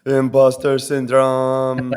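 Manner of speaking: slow, shaky nervous announcement. Pretend. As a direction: say it like you're nervous. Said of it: "that's my nervous voice right there".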